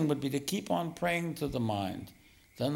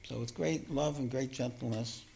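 calm, lowered meditation voice; meditation guidance; 4 semitones lower, 5 dB quieter than usual. Real, not acted. Teacher leading the group into meditation, calm and gentle. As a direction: settle them gently into stillness, easing lower.

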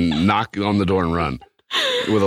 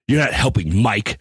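higher, pointed mock scolding; stern warning tone; 3 semitones higher than usual. Man imitating his partner's warning, stern. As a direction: imitate her full-name telling-off. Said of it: "I know that tone".

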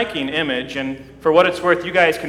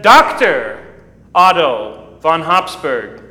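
announcing titles; 5 dB louder than usual. Retold or imitated. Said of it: "the head of the procession said".

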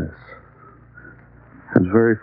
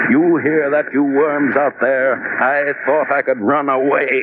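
defiant shout; 5 semitones higher than usual. Acted.

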